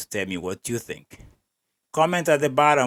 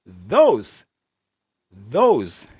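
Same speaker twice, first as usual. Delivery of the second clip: "Those" hit louder, dropping flat and dismissive; indifferent stress on those; 6 dB louder than usual. Retold or imitated. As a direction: lean hard on "Those, those" with mock detachment. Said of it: "detached and indifferent he is?".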